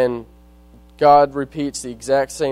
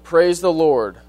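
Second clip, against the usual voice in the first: raised, proclaiming praise; retold shout; 4 semitones higher, 5 dB louder than usual. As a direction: call it out from the porch, half performed. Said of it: "She stood on her porch and shouted".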